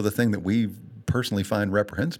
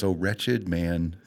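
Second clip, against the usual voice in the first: slow, low, choking up; reading scripture on the verge of crying; close to tears; 4 semitones lower, much slower than usual. Real, not acted. Speaker reciting Paul's cry, close to tears. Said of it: "I'm gonna cry talking about it".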